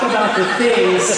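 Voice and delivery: breaking into a laugh mid-sentence. Real, not acted. Speaker cracking up after the teacher story, laughing. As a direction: giggle through the words. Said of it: "cracking up mid speech".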